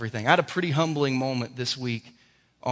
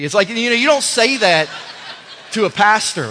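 laughing protest; 6 semitones higher, 8 dB louder than usual. Real, not acted.

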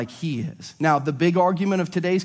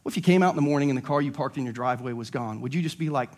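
ordinary delivery

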